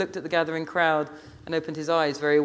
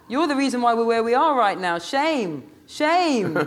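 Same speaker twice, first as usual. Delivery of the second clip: loud, higher-pitched incredulous tirade; outraged Rasta woman; 6 semitones higher, 3 dB louder than usual. A narrator's reading. Rasta woman squaring up to the Hackney boy, outraged. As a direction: take him on at full volume as the Rasta.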